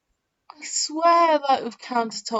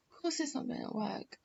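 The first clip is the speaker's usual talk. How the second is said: much softer, fast, to herself; quiet repeat; 3 semitones higher, 14 dB quieter, faster than usual. Real, not acted. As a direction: mutter it under your breath, quickly. Repeats her line to herself.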